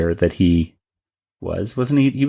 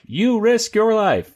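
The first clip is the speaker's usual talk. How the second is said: much higher, slow dramatic announcement; high, stretched-out exclamation of the title; dramatic title read; 11 semitones higher, slower than usual. Shown as a demonstration. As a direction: pitch it way up and draw it out. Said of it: "it's more like".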